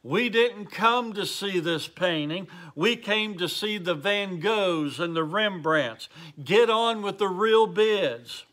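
understated indignation from an impatient bidder; mildly angry outcry. Retold or imitated. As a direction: voice a heckler's impatient protest, lightly acted. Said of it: "another voice cried out angrily".

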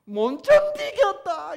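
loud, high, drawn-out Gyeongsang cry; Gyeongsang dialect. Acted. Preacher renders God's words in Gyeongsang dialect, crying out. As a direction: cry out unbearably in Gyeongsang tones. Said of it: "경상도 사투리를 하면 어떻게 되는가요?".

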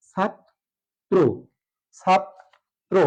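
"ছাত্র" slowly as chhat... tro; long break after chhat, then an o-ending tro in "ছাত্র"; syllable-split demo. Shown as a demonstration. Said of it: "ওকার হয়ে যাবে". ("ছাত্র" ধীরে ছাত... ত্রো)

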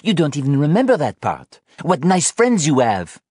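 high, loud, bitter reproach; scolding. Acted. Anna turns on Sean about his friends, scathing. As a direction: rub it in, pitched high.

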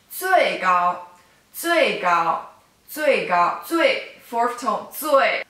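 最 said with a sharp falling fourth tone; fourth tone zui. Shown as a demonstration. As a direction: Mandarin fourth tone on 最.

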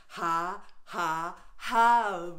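forced ha ha ha, the last one loud; staged laughter-yoga ha ha ha; fake laughing. Shown as a demonstration. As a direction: laugh on cue, building to a big ha. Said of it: "boom shaka laka laughter".

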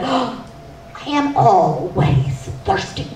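giggly thirsty woman. Acted. Always Thirsty woman speaks.

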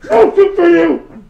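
high, loud, slow barked refusal; stern soup-stand chef. Retold or imitated. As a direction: bark the refusal like a strict chef. Quoting famous sitcom line.

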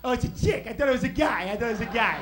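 put-on lightly done tough-guy kid, repeating himself loudly; Joe Pesci. Brother realizing his target is a chick, Joe Pesci voice. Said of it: "He talked like Joe Pesci since I was seven".

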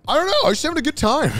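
exaggerated American guy voice; American accent. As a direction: imitate an easygoing American dude. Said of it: "the most American-ass accent".

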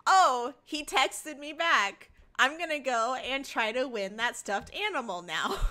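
playfully hammed-up eagerness; smitten excitement. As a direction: act out a mock lovestruck resolve. Acting out a smitten character's excitement.

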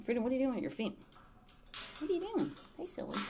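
high playful questions to the bird; asking her parrot about its feet in a high pet voice. Real, not acted. Teasing parrot.

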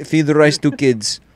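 hammed-up mock Asian English; mock Asian accent. Gamer joking that he can't see, mock Asian accent. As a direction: put on a crude Asian accent. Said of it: "I think I'm Asian".

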